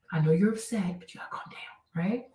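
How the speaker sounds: whispered, gentle calming; hushed reassurance to an upset friend; soothing whisper. Shown as a demonstration. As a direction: whisper it to settle someone down.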